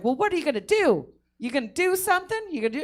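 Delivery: high, loud mock challenge; confrontational. The girl whipping around at her friend, mock taunt. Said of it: "She's like".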